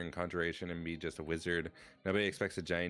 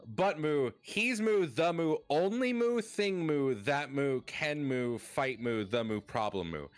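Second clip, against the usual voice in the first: moo redeem, getting worked up; 9 semitones higher, 4 dB louder than usual. Pretend. Streamer ranting about the Doom guy, mooing after each word. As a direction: moo after every word, rising much higher and louder in the middle. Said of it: "This is the Moo Redeem".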